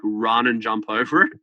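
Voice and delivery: chuckling through the words; laughing. Real, not acted. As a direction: laugh while you tell it. Laughing at own funny story.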